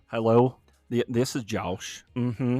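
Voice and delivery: slow, put-on Southern drawl; lightly faked Southern phone voice. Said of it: "Southern drawl".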